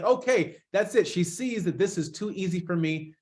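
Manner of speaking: imitating a brother's excitement; elated. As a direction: voice his pleased, excited conclusion. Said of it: "He was elated".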